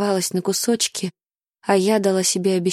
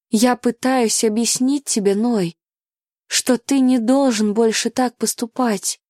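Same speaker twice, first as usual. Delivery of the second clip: higher and louder, breaking toward the end; desperate tearful plea; 4 semitones higher, 3 dB louder than usual. Acted. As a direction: beg him never to do it again.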